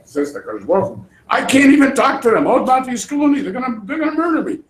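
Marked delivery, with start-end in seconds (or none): 1.3-4.6 higher, louder panicky plea; a touch of fearful Moses; mock terrified plea. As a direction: beg God for help, hammed up. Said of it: "Moshe is terrified".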